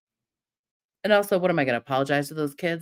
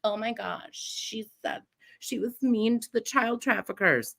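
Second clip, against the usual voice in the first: soft, slow, breathy gasp of fake shock; mock scandalized critic; 4 semitones higher, 4 dB quieter than usual. Mocking critics who gasp at her meanness, soft and slow. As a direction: gasp it like a clutching-pearls critic. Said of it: "you're like".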